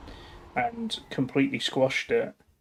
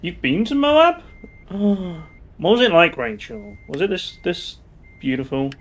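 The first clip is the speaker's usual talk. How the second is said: high, loud, gushing questions with a gasp; bursting with excitement over Moab; excited; 6 semitones higher, 7 dB louder than usual. Real, not acted. Streamer asking Rachel about Moab, excited and gasping.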